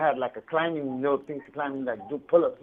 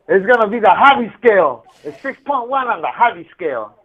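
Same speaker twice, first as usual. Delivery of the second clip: laughing joke; 5 semitones higher, 10 dB louder than usual. Real, not acted. Joking about friend's scale.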